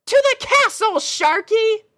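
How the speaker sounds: very high, loud and bright-eyed; a chirpy girl pony puzzled by her steed; squeaky cheerful pony; pony princess voice. Acted. Pony character voice.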